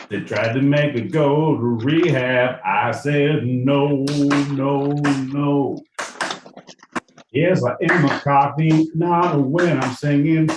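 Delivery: loud, high, hammed-up Cockney singer voice; impression of a singer. A mock impression of the singer, loud and high, riffing for his co-host. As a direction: belt it out like a brash London pop star.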